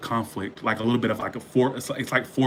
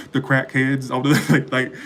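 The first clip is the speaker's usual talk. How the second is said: laughing while talking; 4 dB louder than usual. Real, not acted. Laughing through fire sign jab.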